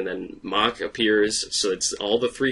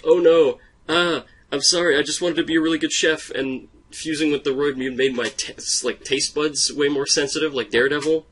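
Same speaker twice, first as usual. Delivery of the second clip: high, fast guilty confession; apologetic chef voice; 5 semitones higher than usual. Retold or imitated. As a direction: blurt out the confession.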